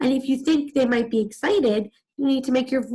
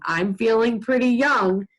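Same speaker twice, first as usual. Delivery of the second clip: lightly self-mocking delivery; a touch of amusement at yourself; Mister Putter. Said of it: "laughing at himself a little bit".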